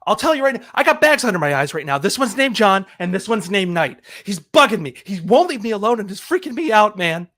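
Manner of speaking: worked-up, dramatic grievance; dramatic complaint. Acted. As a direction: complain as if it were a great ordeal. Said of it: "you're sounding a little bit dramatic".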